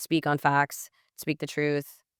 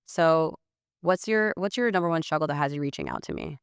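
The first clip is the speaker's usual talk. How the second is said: flat text voice. Shown as a demonstration. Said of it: "it'll sound like this".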